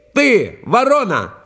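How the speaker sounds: high slow taunting call; fox shouting. A narrator's reading. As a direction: fox jeers at the crow, high. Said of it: "кричит ей".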